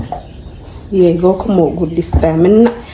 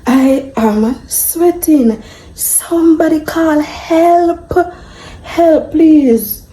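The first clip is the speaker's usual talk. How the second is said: mock panic; 8 semitones higher, much slower than usual. Mock panic over burning pot.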